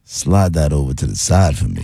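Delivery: lightly put-on smooth talker; a hint of a smooth operator. Shown as a demonstration. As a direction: deliver it as a laid-back come-on. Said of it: "Now say".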